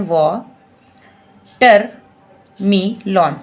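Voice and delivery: "वाटरमेलन" stretched very slowly; drawn out word. Shown as a demonstration. Teacher first saying watermelon very slowly. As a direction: draw the whole word out. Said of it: "इसको हम four में break कर सकते हैं".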